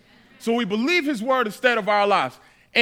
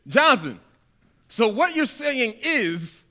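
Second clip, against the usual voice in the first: mock skeptical listener; 3 semitones higher, slower than usual. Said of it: "tempted to say something like this".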